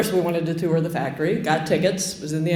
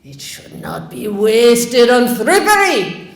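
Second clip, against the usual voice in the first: much higher, loud, slow public proclamation; pompous sheriff proclaiming; 4 semitones higher, 3 dB louder, slower than usual. Retold or imitated. Sheriff proclaiming rationing rules to the town square, loud and pompous. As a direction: declaim to the whole square. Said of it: "hearing him in the public square".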